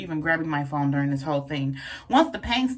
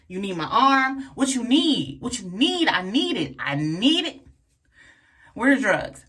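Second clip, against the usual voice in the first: desperate for drugs; 4 semitones higher than usual. Retold or imitated. Begging for drugs, acted.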